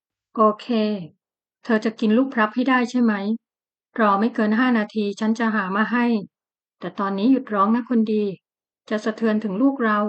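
anxious husband gently coaxing; hurried comforting tone; worried husband calming his tearful wife; anxious soothing. Acted. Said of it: "คนตัวใหญ่ปลอบด้วยสีหน้าร้อนรน".

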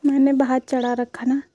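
loud household call. Real, not acted. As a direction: raise the voice to someone across the house. Calls chore instructions to someone away. (दूर बैठे को ज़ोर से आवाज़ देना)

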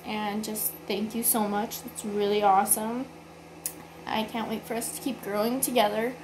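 hoarse, sore-throat voice; talking through a sore throat. Real, not acted. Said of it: "sorry for my voice".

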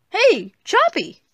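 high, drawn-out happy call; singsong hello, voice up high; excited greeting. Acted. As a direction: call out brightly to a pet. Greets the pet-like friend.

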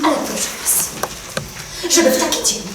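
reproachful appeal. Acted. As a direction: appeal to them to stop quarrelling. First attempt to calm a quarrel. (apel z wyrzutem)

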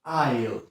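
"Aisle" wymówione jak "ajl", bez s; bez głoski s. Shown as a demonstration. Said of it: "tak jak słyszysz S, nie wymawiamy". ("Aisle" jako "ajl", s nieme)

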